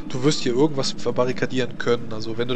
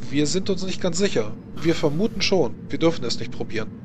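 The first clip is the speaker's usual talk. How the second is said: higher, eager servant voice; a helpful servant, lightly voiced; 4 semitones higher than usual. Servant offers help to the visitor, higher eager voice.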